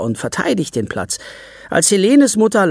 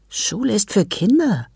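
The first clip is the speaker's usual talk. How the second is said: put-on high, light child's voice; lightly voiced little girl, matter-of-fact; 8 semitones higher than usual. Child Selin voiced in story.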